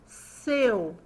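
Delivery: SEU drawn out as one syllable; one unhurried, stretched SEU; slow deliberate word. Shown as a demonstration. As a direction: say SEU slowly in a single mouth movement. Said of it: "fale essa palavra pausadamente".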